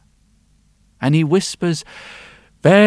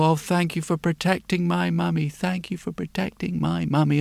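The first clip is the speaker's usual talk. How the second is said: grateful thanks; 6 dB quieter than usual. Acted. Grateful girl thanks blacksmith.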